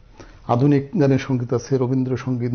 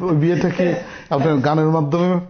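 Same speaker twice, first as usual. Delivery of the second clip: laughing question; 3 dB louder than usual. Real, not acted. Teasing question about his marriage.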